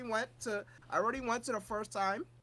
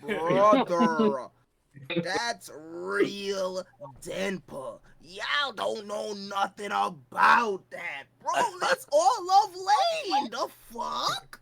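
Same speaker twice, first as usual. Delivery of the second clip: excited; 6 dB louder, much slower than usual. Real, not acted. Gushing over Lain opening.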